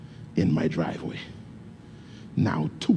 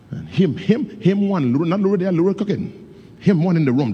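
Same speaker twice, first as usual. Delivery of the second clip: high, louder calling of the praying father; imitating father praying; 8 semitones higher, 4 dB louder than usual. Son imitating his father crying out to God, high. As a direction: echo his dad's morning cry.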